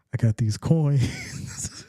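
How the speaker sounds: slow, breathy hush of a shady seller; secret whisper. Retold or imitated. Friend mocking a card flipper, hushed slow whisper. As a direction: whisper it slowly like a back-alley deal.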